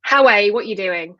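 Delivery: a lightly voiced Northern English "How are, what you doing" repeated on request; a hint of a Northern accent. Shown as a demonstration. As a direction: say it again in Northern dialect. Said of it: "Do it again".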